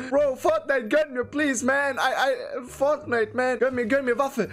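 whiny, urgent begging; pleading. Real, not acted. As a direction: beg in exasperation for a break. Begging game for a weapon.

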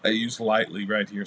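talking through a yawn; words stretched by a yawn. Real, not acted. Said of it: "Sorry, I was yawning there for a second".

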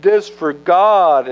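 high, slow, sheepish excuse; smooth it over with a high wheedle; damage control. Retold or imitated. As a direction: Saul spinning an excuse to Samuel. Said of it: "this little damage control".

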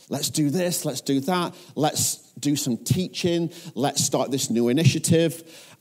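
mildly hammed-up go-getter enthusiasm; eager charging ahead. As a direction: rattle off one keen idea after another. Acting out his charge-ahead default.

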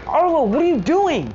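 alarmed cry. Retold or imitated. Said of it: "he's like".

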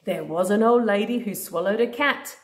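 singsong storybook read-aloud; reading to a toddler. Acted. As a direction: read it like a bedtime book. Reading a picture book to a child.

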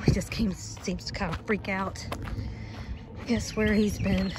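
winded from the walk; breathless, puffing between words; out of breath. Real, not acted. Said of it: "ooh, I'm out of breath".

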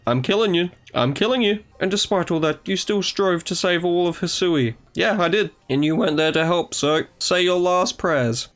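lightly voiced apologetic commander. Commander apologising to Akari while player mocks threats. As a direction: apologise solemnly, then turn threatening.

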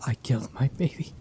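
disbelief sinking in; stunned grief. Acted. Mother over her dead son, stunned grief.

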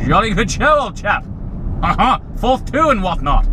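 lightly posh English gent; hearty booming country squire. Pretend. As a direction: play a jolly upper-class toff. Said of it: "assumes a certain demeanor".

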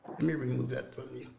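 soft, hushed invitation to come home; Holy Spirit softly welcoming a son back; tender Holy Spirit. Acted. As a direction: quietly coax a lost son back. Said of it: "the Holy Spirit comes and he says".

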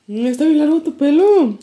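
riendo mientras le dice a su mamá; laughing tease. Real, not acted. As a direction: con risa, medio burlón. Teasing mom, laughing. (burlándose de su mamá entre risas)

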